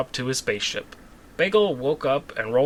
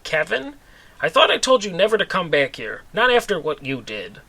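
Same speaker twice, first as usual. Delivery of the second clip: surprised lady; 6 semitones higher, 4 dB louder than usual. Acted.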